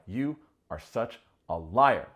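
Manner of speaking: slow, loud petty accusation; hammed-up schoolgirl spat; middle school girl fight. Nick accusing Sandy like a middle school girl, slow and loud. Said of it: "straight middle school girl fight".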